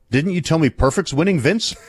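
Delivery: imitating a deadpan question; retold deadpan query, slight rise on winning. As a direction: ask it straight, no comedy. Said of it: "no comedy, no, just deadpan, he goes".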